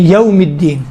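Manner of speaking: "یوم الدین" with a smooth yaw glide; no jerk. Shown as a demonstration. Teacher answering a student's question, smooth glide. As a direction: glide through "یوم" without a catch. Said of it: "جھٹکا نہیں ہے وہاں".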